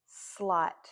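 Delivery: "slot" stretched so each sound shows; blended slowly. Shown as a demonstration.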